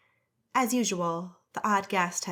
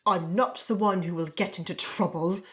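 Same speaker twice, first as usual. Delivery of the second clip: hissed; 4 dB louder than usual. Acted. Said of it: "the wife hissed".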